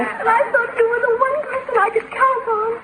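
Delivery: tearful, trembling reproach; quietly hurt. Acted. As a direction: near tears, hurt and let down. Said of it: "Oh, don't cry".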